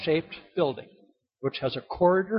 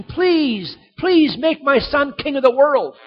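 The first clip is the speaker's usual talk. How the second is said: hammed-up begging, higher; a hint of pleading, raised voice; mock pleading; 9 semitones higher, 6 dB louder than usual. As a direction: beg like a weak king would, mockingly. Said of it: "it's not like God is pleading".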